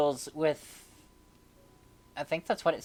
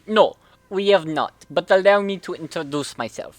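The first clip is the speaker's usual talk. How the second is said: bad Russian accent; 2 semitones higher, 8 dB louder than usual. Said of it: "is he doing his shitty Russian accent".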